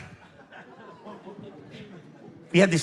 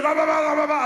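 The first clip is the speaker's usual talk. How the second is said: mimicked scolding; 7 semitones higher, faster than usual. Mimics principal's incomprehensible scolding.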